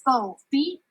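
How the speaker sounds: booming menacing giant chant; loud angry giant. Acted. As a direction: roar like a hungry giant. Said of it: "a loud, angry voice called".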